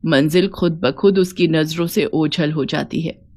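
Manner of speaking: a hint of a steady, encouraging elder; lightly voiced reassuring mother-in-law. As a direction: gently reassure your daughter-in-law, kept low.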